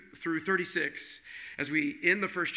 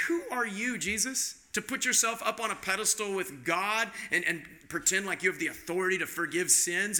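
higher, indignant challenge; uptight leaders; 3 semitones higher than usual. Retold or imitated. Preacher voicing uptight leaders challenging Jesus, indignant and higher. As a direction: scoff like offended church leaders. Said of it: "uptight church leaders".

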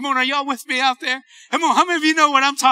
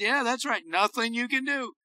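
softer, matter-of-fact reply; calm answer; 6 dB quieter than usual. Retold or imitated. The Lord answers the worried preacher, calm and quiet. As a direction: answer the panic quietly, without urgency. God calmly answers the worked-up prayer.

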